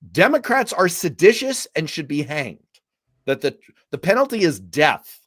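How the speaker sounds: hammed-up outrage, punching the key words; mock verbal explosion. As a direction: retell the outburst with mock fury. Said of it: "a verbal explosion".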